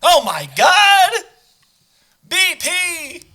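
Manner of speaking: high, loud shocked gasp; mock shock. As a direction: gasp like it's a scandal. Gasping at a fuel leak story.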